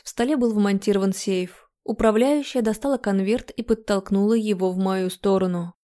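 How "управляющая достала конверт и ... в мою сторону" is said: ordinary delivery, nothing marked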